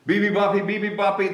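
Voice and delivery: hammed-up roaring; mock roar. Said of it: "they roared".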